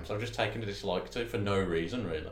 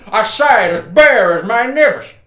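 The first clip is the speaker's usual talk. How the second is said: high, loud cartoon rooster drawl, much higher and louder; Foghorn Leghorn; 11 semitones higher, 16 dB louder, slower than usual. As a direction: ham up the pompous cartoon rooster. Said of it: "Foghorn, leghorn".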